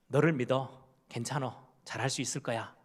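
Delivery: quiet loving parent; reassuring. Retold or imitated. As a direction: reassure the child gently. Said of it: "이런 이야기들을 제일 듣고 싶어 한대요".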